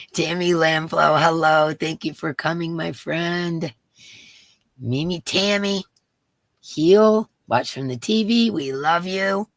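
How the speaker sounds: talking while chewing gum. Real, not acted. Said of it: "I still have gum in my mouth".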